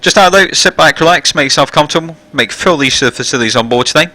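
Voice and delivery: captain's PA announcement. Real, not acted. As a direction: welcome passengers over the intercom. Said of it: "it means the passenger announcement now".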